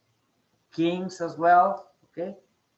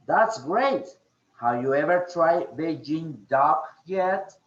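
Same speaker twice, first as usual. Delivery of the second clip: "great" lifted with feeling; demonstrated dialogue intonation, "great" stressed; expressive intonation. Shown as a demonstration. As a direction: model the line with a lively "That's great". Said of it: "certain emotions on what you're speaking".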